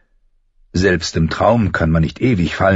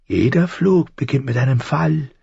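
high crow explaining; high, thin voice; 7 semitones higher than usual. A narrator's reading. Crow explains flight to falling boy, high and thin. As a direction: lay out the rule in a thin bird voice. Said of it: "Die Stimme klang hoch und dünn".

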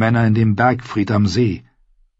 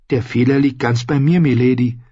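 mildly courteous, slightly raised voice; very polite; 4 semitones higher than usual. Acted. Ned takes the blame before Arya, very polite. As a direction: offer a courteous apology, lightly. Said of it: "Er war sehr höflich".

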